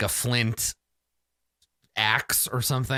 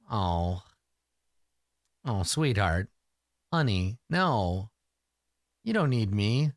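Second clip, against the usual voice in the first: tender letdown; 3 semitones lower, slower than usual. Acted. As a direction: let him down gently. Hero gently turns him down.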